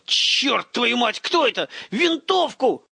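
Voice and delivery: put-on high, urgent boyish yell; alarmed cry. A narrator's reading. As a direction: cry out in a startled panic. Startled boys overheard upstairs.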